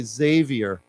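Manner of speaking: "Xavier" starting with a Z sound; "Xavier" opening on a buzzed Z; Z pronunciation. Shown as a demonstration. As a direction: say "Xavier" as ZAY-vee-er. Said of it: "It's pronounced with a Z".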